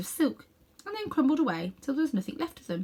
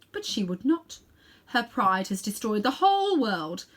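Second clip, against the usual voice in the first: bitter queen; 3 semitones higher than usual. Acted. Queen justifies destroying her world.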